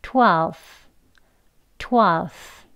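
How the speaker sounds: twelfth with no f, tongue out for th; model twelfth. Shown as a demonstration. Teacher saying twelfth together with the class. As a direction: say twelfth clearly for students to echo. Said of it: "같이 해볼게요".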